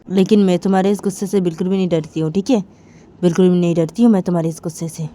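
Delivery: acted quarrel comeback, loud and unyielding; defiant retort. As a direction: stand up to them forcefully. Uma defies angry husband.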